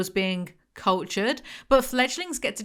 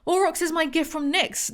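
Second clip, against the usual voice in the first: Nefre voice; 9 semitones higher than usual. Acted. Voicing Nefre's proud line.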